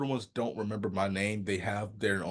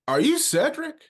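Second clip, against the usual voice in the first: mock parent question; 6 dB louder than usual. Parents asking, voiced high.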